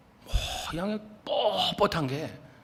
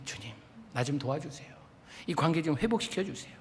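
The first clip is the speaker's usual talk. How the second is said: much softer, intimate plea; soft prayer; 7 dB quieter than usual. Shown as a demonstration. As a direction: pray it quietly, almost to yourself. Modelling a quiet prayer.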